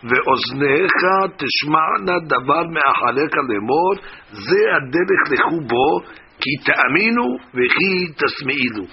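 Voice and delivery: slow, measured reading of a Hebrew verse; slow scriptural recitation. Real, not acted. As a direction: recite the verse deliberately, word by word. Reads the verse from Isaiah.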